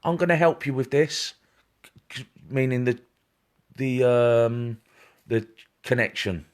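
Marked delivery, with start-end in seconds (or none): 0.0-1.3 grandma's voice. Retold or imitated. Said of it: "she's saying".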